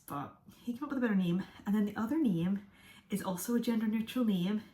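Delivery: breathless, catching her breath between phrases. Real, not acted. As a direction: talk while still winded. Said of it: "Why am I so out of breath?".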